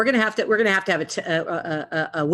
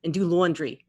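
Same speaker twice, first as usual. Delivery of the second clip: light Jersey vowels on lawn and laundry; New Jersey accent; 2 semitones higher than usual. Shown as a demonstration. Player showing Jersey's big thing, light New Jersey accent. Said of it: "we'll go New Jersey next".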